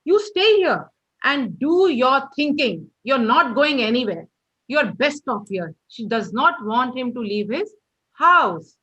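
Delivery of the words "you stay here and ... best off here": very annoyed. Acted. Mother orders Derry to stay home, annoyed. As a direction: lay down the law to the son. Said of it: "very annoyed".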